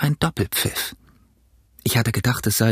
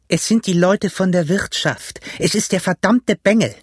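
high, cursing outburst; raised, bitter exclamation; angry calling out; 6 semitones higher than usual. A narrator's reading. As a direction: rage at the ones who got away. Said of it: "rief der blinde Pugh".

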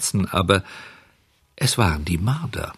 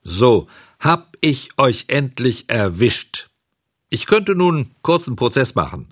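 gloating farmer; 2 semitones higher than usual. Acted. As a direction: lecture the caught thieves smugly. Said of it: "hielt er ihnen folgende Rede". (triumphierender Bauer)

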